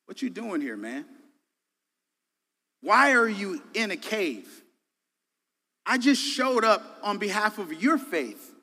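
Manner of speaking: lightly voiced God, casual and direct; a hint of God questioning a friend; God in casual slang. God asks Elijah why he hides, casual challenge. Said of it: "in my language".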